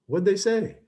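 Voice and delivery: pitched well up, sharp and urgent; alarmed question. Retold or imitated. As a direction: demand to know what they said. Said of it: "And I go".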